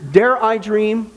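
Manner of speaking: slow, drawn-out mock wonder; mock dramatic. Host musing on the cow church, slow mock drama. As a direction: savour each word theatrically.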